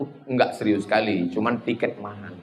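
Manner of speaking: throwaway deadpan. Retold or imitated. Punchline muttered as own retort.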